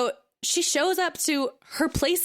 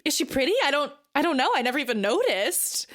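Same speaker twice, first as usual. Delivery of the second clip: flustered wife; 2 semitones higher, faster than usual. Retold or imitated. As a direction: pitch it way up and trip over the words. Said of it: "she's like".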